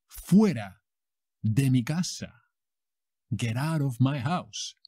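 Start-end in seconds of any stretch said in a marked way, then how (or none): 0.1-2.3 dramatic eviction. Acted. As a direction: throw him out like a telenovela heroine. Soap heroine throwing him out.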